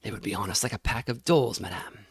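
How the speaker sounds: low, gruff servant voice; heavy man's voice. A narrator's reading. Heavy man answering the lady in a low voice. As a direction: answer low and rough, like a hired brute. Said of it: "The man I had run against answered".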